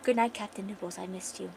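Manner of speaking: soft mock whisper to a toy. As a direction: hush it like tucking in a plush. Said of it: "she whispers".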